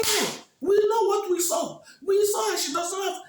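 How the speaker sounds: high, loud furious protest; angry shouting. Acted. The two jealous women shouting at the king that Olama lies. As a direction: yell it in outrage, refusing to believe. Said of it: "The two women were shouting".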